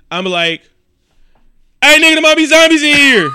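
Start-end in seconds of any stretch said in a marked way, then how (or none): 1.8-3.3 loud, high, fast panicked yell; screaming warning. Acted. Movie watcher alerting the crew about zombies, screaming warning. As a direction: holler it out to alert the whole crew. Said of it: "I'm screaming, dude".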